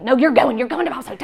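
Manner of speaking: loud firm repeat, easing off at the end; mad insistence. Retold or imitated. Mom arguing with her son about Bible study, mad insistence. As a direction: override the objection, mock-cross parent. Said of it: "I'm getting so mad about it".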